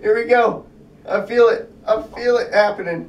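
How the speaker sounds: eager anticipation as it works; rising excitement. Real, not acted. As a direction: feel it coming, getting excited. Trick finally starting to work.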